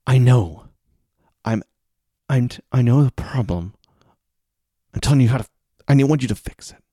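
fed-up protest with stops and starts; exasperated student. Acted. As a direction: struggle to stay patient while insisting. Acted frustrated student.

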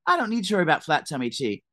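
high, bright sponsored-ad voice; influencer ad from the grave. Pretend. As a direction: hype it like an influencer ad. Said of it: "I'm gonna, like".

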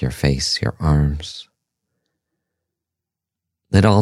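calm, measured meditation voice with long pauses; guided meditation. Acted. Host leading listeners through a meditation on pleasure and breath, calm guided-meditation delivery. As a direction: guide listeners gently, leaving space between phrases.

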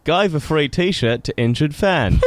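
bad British accent that slides towards Australian; attempted British accent. Shown as a demonstration. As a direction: have a clumsy go at a British accent. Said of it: "my best British accent".

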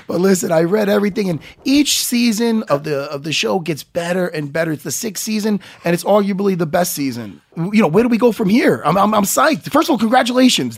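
eager fanboy rush, lifting at the end; enthusiastic. Real, not acted. Fan praising the show to its creators, enthusiastic. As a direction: gush with real enthusiasm for the show. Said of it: "hearing the enthusiasm".

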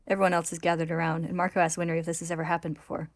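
measured, dramatic read-aloud; story narration. A narrator's reading. Host reads manga recap to co-hosts, story narration.

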